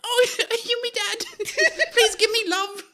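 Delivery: high squeaky laughing urchin; scamp voice. Acted. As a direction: beg like a little scamp. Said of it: "use that voice".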